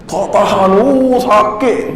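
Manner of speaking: high, drawn-out moan of pain; re-enacted pain. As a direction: act out unbearable pain, stretching the words. Mengulang rasa sakit tak tertahan. (meniru rintihan sakit, nada tinggi)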